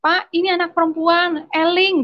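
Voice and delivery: high-pitched, drawn-out pleading call; imitated neighbours' cry. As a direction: call out like neighbours urging a father to stop. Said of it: "tetangga-tetangga tuh teriak".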